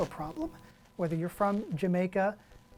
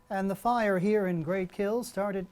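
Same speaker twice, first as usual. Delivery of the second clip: measured, slow reporter delivery in a put-on Midwestern accent; mimicked Midwestern reporter accent; slower than usual. Journalist recalling his early broadcasts, mimicked Midwestern reporter accent. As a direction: imitate a Midwestern newsreader, slowly. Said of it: "tried to sound like a reporter".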